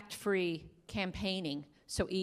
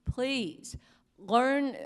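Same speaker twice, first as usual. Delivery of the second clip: imploring, rising higher on the plea; earnest pleading; 4 semitones higher, slower than usual. Real, not acted. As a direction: beg them, leaning hard on the last words. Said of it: "I'm begging you".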